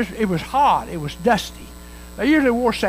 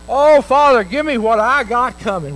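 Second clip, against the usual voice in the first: demanding son; 2 semitones higher, 6 dB louder than usual. Acted. Prodigal son demands his share.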